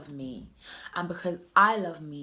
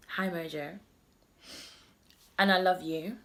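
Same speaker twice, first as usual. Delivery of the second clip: poem reading. Acted. Reading a friend's poem to viewers, tender recital.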